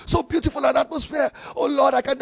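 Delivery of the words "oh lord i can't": higher-pitched mock devotion; acted rapturous prayer. Worshipper on the bus promises God anything, acted rapture. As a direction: get carried away imitating worship. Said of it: "enjoy myself, fellowship with the Lord".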